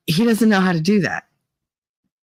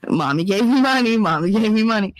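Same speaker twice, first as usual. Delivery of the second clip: son's insistence; 3 semitones higher than usual. Retold or imitated. Mimicking son insisting mommy paid.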